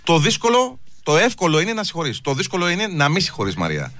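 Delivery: solemn sermon-style lecture, a touch hammed-up; mock life lesson. Host lecturing the caller on forgiveness, mock-solemn sermon. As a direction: preach it like a wise teacher to the listeners. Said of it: "Θα δώσω ένα μάθημα ζωής".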